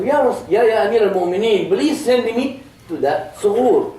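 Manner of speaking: high, eager begging voice, slowing at the end; pleading young man. Acted. Young man pleading with the Caliph to send him, high and eager. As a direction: beg to be sent to the front line.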